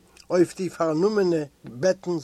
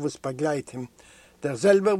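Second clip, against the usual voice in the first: ordinary delivery, nothing marked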